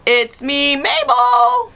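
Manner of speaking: put-on very high, loud child's yell; little sister yelling. A narrator's reading. Little sister calling up the stairs, very high loud yell. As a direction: shriek it up the stairs. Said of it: "my little sister yelled up".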